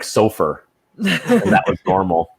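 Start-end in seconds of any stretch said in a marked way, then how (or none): 0.0-0.6 "sofer" for sofa, ending in an R; mom's added R. Retold or imitated. Daughter quotes her Southern mom, "sofer" with an added R. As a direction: say "sofer" as SO-fer. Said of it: "she just said things like".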